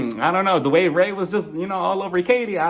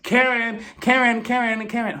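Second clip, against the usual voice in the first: calling out; 6 semitones higher than usual. Retold or imitated. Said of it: "Giselle was just like".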